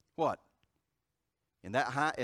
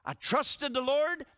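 fiery preaching; 9 semitones higher, 7 dB louder than usual. Acted. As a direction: build to the climax, preach it. Preaching climax.

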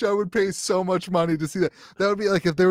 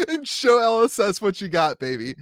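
excited; 5 semitones higher than usual. Pretend. Hype talk.

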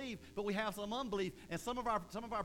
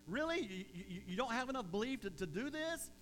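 grilling; 3 semitones higher than usual. Retold or imitated. Jesus grilling the disciples for weak belief, incredulous. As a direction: scold them in disbelief. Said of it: "really grilling these guys".

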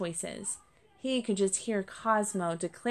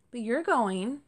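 put-on higher-pitched child voice, piping up; small kit chiming in to object; piping little kit; 5 semitones higher than usual. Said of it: "Cherry piped up".

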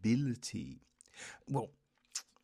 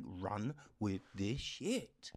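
a slow, hushed urging to just run with it; slow, soft insistence; 3 semitones lower, 4 dB quieter, slower than usual. Retold or imitated. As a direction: Run with this shit, said slowly and hushed. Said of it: "I'm like".

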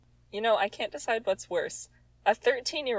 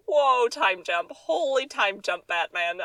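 mock amazement; 3 semitones higher, 3 dB louder, slower than usual. Real, not acted. Mocking sudden time skip.

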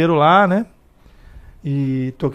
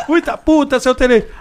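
put-on high old-cop voice through laughter; laughing imitation; 9 semitones higher, 5 dB louder than usual. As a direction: repeat the punchline laughing.

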